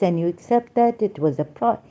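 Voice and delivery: ordinary talk, nothing marked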